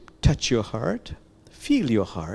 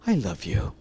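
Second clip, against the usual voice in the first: heartfelt; 2 semitones lower than usual. Shown as a demonstration. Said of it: "Say it with feeling, unabashedly".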